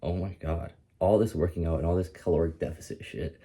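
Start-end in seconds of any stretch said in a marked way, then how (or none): 0.0-0.7 whispered and slow, shocked at her reflection; dismayed whisper. Retold or imitated. Watching her own reel back, a dismayed whisper. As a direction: breathe it out in disbelief. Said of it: "I was like".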